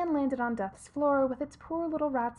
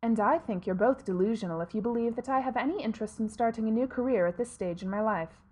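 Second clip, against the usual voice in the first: grim reaper voice; 3 dB louder than usual. Acted. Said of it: "said Death".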